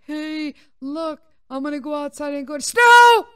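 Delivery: high goofy voice bursting into a shout; overjoyed dog, building to a yell; excited dog voice. Acted. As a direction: voice the dog, exploding on the last word. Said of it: "Like, that's how he was".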